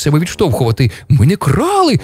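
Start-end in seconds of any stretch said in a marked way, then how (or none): 1.1-2.0 high-pitched squawking protest; clamoring denial. Acted. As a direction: shout out the denial in a panic. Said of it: "галасують".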